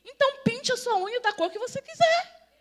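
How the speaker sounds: loud, high-pitched punchline; emphatic exhortation. Real, not acted. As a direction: belt it out to the congregation. Preacher's emphatic punchline to congregation.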